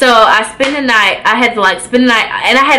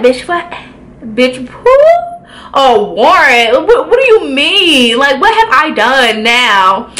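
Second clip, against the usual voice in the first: high incredulous bitch what; replaying her shock at the warrant; disbelief; 3 semitones higher than usual. Telling the cops about the warrant, shocked and high.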